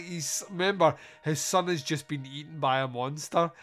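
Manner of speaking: normal talking voice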